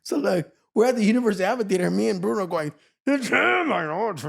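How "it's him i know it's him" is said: excited whisper-shout. Retold or imitated. Recognizing Michael backstage.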